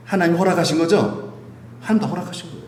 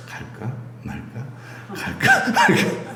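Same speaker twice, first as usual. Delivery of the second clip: whispered dithering; 10 semitones higher, 4 dB quieter, slower than usual. Pretend. People dithering between gods.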